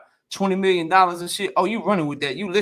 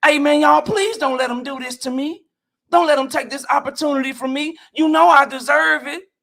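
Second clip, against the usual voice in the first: mock pleading; 3 semitones higher than usual. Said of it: "pleading and begging".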